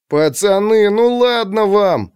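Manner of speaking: put-on high, drawn-out childish whine; whining boy. A narrator's reading. Boy whines again at his friends, high. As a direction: beg again like a kid. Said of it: "снова законючил Саша".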